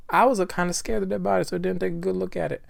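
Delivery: fast, high witness voice; hurried witness. Acted. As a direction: rattle through the testimony in character. Rereads witness testimony in character.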